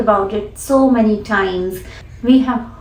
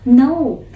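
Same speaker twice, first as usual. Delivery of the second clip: "No" punched a little louder; stress on no; 2 semitones higher, 4 dB louder than usual. Shown as a demonstration. Teacher isolating the stressed "No" for students. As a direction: hit "No" firmly on its own. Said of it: "the focus here goes on no".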